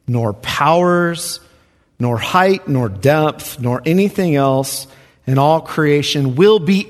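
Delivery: slow, weighty recitation; scripture reading. Acted. Preacher solemnly reading the verse to listeners. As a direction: let each phrase land slowly.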